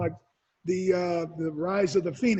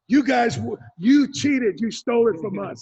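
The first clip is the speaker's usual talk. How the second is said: louder teasing accusation; mock accusation; 2 semitones higher, 5 dB louder than usual. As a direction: jokingly accuse an old rival. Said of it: "I say".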